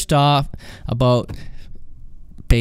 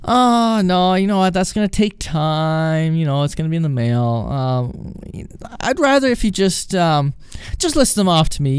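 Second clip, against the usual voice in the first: objecting customer; 4 semitones higher than usual. Retold or imitated. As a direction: lightly play a fussy customer.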